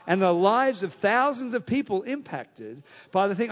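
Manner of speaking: very slow, weighty word by word; drawn-out sermon build; slow preaching emphasis. Acted. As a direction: let each phrase land slowly.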